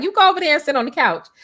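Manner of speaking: funny assistant voice. Retold or imitated. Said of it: "she talked real funny".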